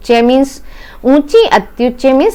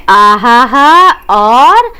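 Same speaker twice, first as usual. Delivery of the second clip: pleased exclamation; 4 dB louder, much slower than usual. Acted. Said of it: "कौन सी दोनों चीजें?".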